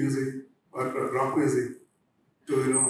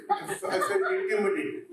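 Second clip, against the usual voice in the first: laughing; 5 semitones higher than usual. Real, not acted. Laughing at own past shame.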